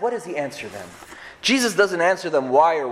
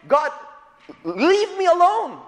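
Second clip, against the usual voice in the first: anguished Job; 11 semitones higher, slower than usual. Retold or imitated. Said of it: "He's saying".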